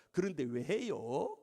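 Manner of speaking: low, very slow, drawn-out question; boy's cheeky comeback. Retold or imitated. Scolded boy back to the pastor, slow cheeky question. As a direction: imitate a kid unmoved by the telling-off. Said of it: "이놈이 한다는 소리가".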